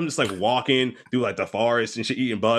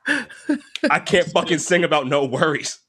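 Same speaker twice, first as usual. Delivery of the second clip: higher, slow, sulky cartoon cub; mock grieving Simba; 5 semitones higher, slower than usual. Simba refuses to sing with his friends, in a slow, higher sulky voice. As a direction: drag it out like a cub too sad to sing.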